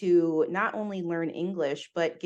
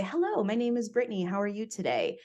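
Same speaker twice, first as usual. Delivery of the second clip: proper professional voice; 3 semitones higher, faster than usual. Shown as a demonstration. Showing the proper voice that gets her the job, polite. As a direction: sound neat and proper, like in an interview. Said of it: "if we were to say".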